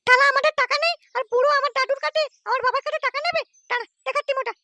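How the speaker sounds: a hint of a sneering character; high put-on voice. The figure sneers at the stingy old man.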